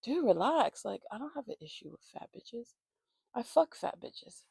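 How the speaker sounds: dismissive put-on voice of him; mocking boyfriend. Imitating boyfriend who gaslights her about fat women, dismissive. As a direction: imitate his careless brush-off. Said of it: "he starts gaslighting".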